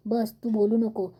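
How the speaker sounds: a touch of a stern husband's warning; stern shutdown. Acted. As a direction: lay down the law, no arguing. Father silences angry mother.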